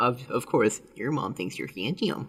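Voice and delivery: plain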